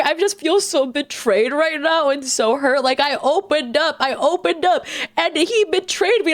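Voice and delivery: high, overwrought imitation of a frantic sister; mimicking sister's rant. S0 mocking her sister's midnight phone rant, high and frantic. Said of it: "she's like".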